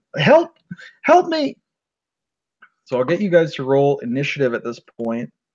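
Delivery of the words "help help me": screamed words, voice way up high. A game master voices a screaming woman calling out to the players, screaming for help. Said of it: "this woman is screaming, and she starts calling out".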